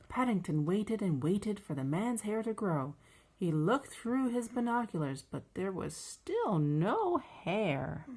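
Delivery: measured, lively picture-book narration; children's story reading. A narrator's reading. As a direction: read it slowly to a small child.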